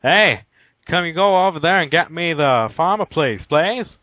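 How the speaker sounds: improvised Canadian accent that drifts toward Irish; attempted Canadian accent. Shown as a demonstration. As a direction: try a Canadian accent and lose your way. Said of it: "C-, c-, could I do one?".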